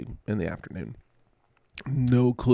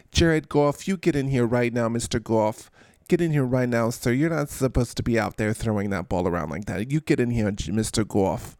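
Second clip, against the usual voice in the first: lightly played stern telling-off; a hint of a cross mother; mock scolding parent. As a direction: order a naughty child inside, playfully.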